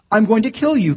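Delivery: mock menacing wolf threat; menacing growl. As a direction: snarl it like a hungry predator. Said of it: "kind of fashion".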